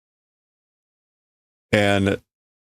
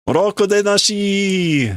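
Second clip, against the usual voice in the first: high-pitched retort; defiant worker; 10 semitones higher, slower than usual. Acted. Worker talking back to the boss, high-pitched retort. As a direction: throw the question back at him, high.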